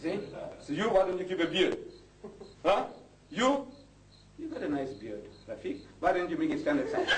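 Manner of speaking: usual speaking voice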